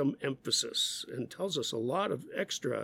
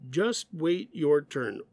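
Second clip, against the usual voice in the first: scolding demo; slower than usual. Shown as a demonstration. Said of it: "We can say".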